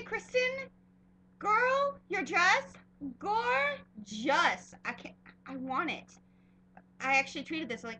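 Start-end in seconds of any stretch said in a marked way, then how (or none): 0.0-4.7 high-pitched fangirl gush. Real, not acted. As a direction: squeal over the dress. Gushing over Kristen's dress.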